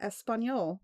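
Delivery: Spanish read in a slow, English-accented way; "Porque me gusta hablar español" in a slow English accent. Real, not acted. Reading Spanish to friends with a plain English accent. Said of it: "Never say that with an English accent".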